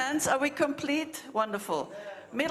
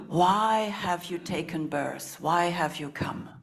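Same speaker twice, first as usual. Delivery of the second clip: slow, voiced asking; slow spoken question; 5 semitones lower than usual. Shown as a demonstration. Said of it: "So we'll repeat that again".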